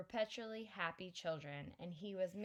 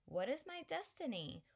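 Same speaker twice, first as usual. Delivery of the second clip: whiny repeated question; 6 semitones higher than usual. Retold or imitated. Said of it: "walked around all the time saying".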